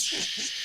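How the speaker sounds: hissed static noise. Acted. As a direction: make a radio static shh. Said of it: "she's literally making the noise".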